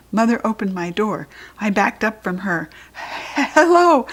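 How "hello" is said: high, loud, too-bright greeting; nervous hello. Acted. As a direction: cover guilt with a forced cheery hello. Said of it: "I said, kinda nervous".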